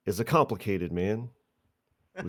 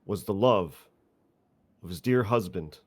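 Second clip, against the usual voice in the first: impassioned courtroom speech. Acted. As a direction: plead to the court with mock gravity.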